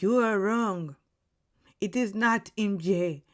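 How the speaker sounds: loosely put-on theatrical accent; Alan. Game host telling players they guessed wrong, in a put-on accent. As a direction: deliver the verdict in an inexact mock accent. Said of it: "I'm doing this accent".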